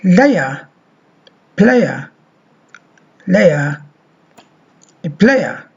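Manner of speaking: layer as leə, player as pleɪə; model word pairs. Shown as a demonstration. Teacher gives example words for the diphthong. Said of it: "when we say".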